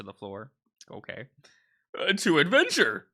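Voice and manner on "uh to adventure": excited cheer. Acted. Character cheering adventure.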